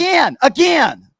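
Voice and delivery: Steven voice. Acted. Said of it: "Steven got me going".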